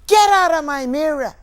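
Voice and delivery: loud, high outraged stage yell; screaming at her. Acted. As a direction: scream it at the intruder in the mirror. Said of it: "I scream at her".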